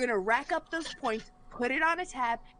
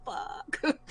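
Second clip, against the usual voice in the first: whispered curse; 3 semitones higher than usual. Retold or imitated. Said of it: "so we're like".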